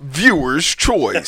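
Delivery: very slow falling announcer call; slow announcer call again. Shown as a demonstration. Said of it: "Do that again".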